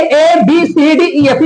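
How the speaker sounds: each of ए बी सी डी ई एफ said as its alphabet name; letter-name reading. Shown as a demonstration. Teacher shows learners the wrong habit, letter-name reading. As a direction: recite the letter names ए बी सी डी ई एफ in English, slowly. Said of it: "बिल्कुल ही गलत फंडा है".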